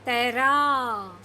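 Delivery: तैराक said slowly with a falling end. Shown as a demonstration. Teacher repeating the word slowly for the class. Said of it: "धीरे धीरे पढ़ने की कोशिश करिए".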